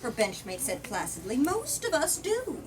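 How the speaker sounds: reading a politician's speech from the book; firm, rhetorical read-aloud; story narration. A narrator's reading. Politician addressing Parliament, rhetorical speech read aloud.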